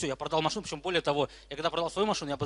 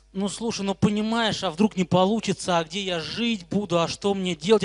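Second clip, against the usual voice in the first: whiny worried; 5 semitones higher, 6 dB louder than usual. Retold or imitated. Imitating scared would-be founders.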